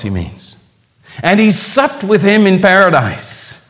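ringing pulpit quotation; forceful preaching. Real, not acted. Preacher declaiming Spurgeon on the saved robber, forceful. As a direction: declaim it high and loud, with long pauses.

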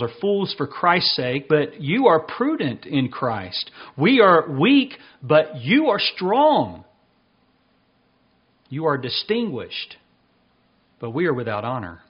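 slow, weighted mock praise; sarcastic. Apostle to self-satisfied Corinthians, slow sarcasm. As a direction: draw out the contrast with pointed irony. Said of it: "And even becoming more sarcastic".

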